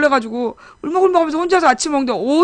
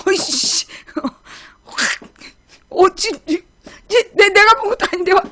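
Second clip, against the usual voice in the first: high, spluttering retold outrage; suddenly riled; 8 semitones higher, 4 dB louder than usual. Wife wrongly blamed by her husband, spluttering with anger. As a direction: re-enact a flare of temper, stumbling over words. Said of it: "확 열이 받는 거지".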